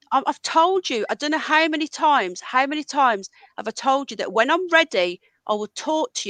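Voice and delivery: fed up, repeating himself; angry. Real, not acted. Streamer tells Ron he'll talk when ready, exasperated anger. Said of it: "I'm still too angry".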